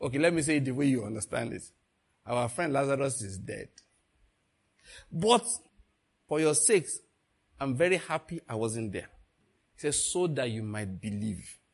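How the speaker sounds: a hint of a soft, patient Jesus voice; teacher calming his disciples; Jesus speaking gently. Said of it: "Jesus said".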